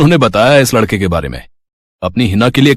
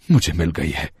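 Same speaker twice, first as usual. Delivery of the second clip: मुझे मिल गई है repeated much softer, trailing off; fading echo; 7 semitones lower, 8 dB quieter than usual. Acted. Old man repeats his confession to Champa, fading softly. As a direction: let मुझे मिल गई है die away to a murmur.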